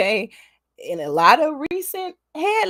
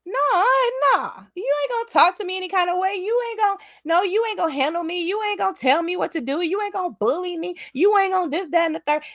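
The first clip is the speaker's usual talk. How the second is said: defiant; 3 semitones higher, faster than usual. Retold or imitated. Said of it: "I'm just like".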